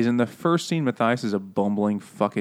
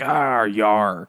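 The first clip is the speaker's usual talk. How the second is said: lightly voiced mock pirate; 2 semitones lower than usual. Clooney after the wipeout, mock pirate. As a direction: give a small pirate growl. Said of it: "in my head he's a pirate".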